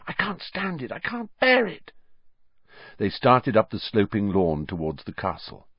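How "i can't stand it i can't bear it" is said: high, anguished and strained; distraught. A narrator's reading. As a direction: voice rising in distress. Hermione distraught.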